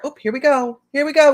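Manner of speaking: real mock-weary call to chat; exasperated here we go. Real, not acted. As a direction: sing it out like you expected this. Troll appears in livestream chat.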